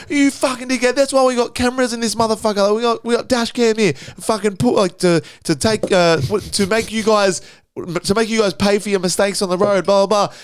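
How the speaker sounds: mock angry rant. Retelling the other driver's dash cam threat, mildly angry rant. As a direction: imitate his telling-off without full force. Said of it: "That's how much he's yelling".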